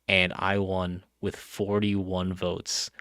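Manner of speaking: slow, loud, proud boast. Real, not acted. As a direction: savor each word of the win. Bragging about the vote win.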